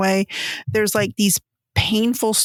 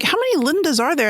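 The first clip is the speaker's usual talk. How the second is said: retold bafflement; 6 semitones higher than usual. Retold confused question while reading.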